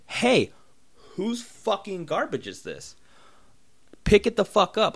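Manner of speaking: put-on high, pissy call-out at kids. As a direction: snap at them, annoyed and high. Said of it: "like, all pissy".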